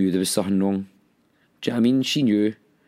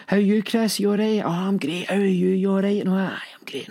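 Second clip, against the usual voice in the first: high, put-on cheery small talk; fake cheeriness; 10 semitones higher than usual. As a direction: sing out fake-happy pleasantries in a raised pitch. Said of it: "just putting on this fakeness".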